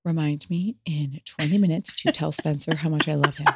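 soft, lightly voiced mock dictation; a hint of teasing sweetness; imitating brother. Brother teasing mom by dictating a reminder, soft. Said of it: "he'll pick up his phone and go".

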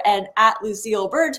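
numb tongue, thick speech; thick tongue lisp. Real, not acted. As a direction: talk around a numb tongue. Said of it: "my tongue is numb".

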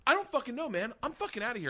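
high-pitched mock exasperation; retold fed-up outburst. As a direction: imitate a man storming off. Blind man storms out in story.

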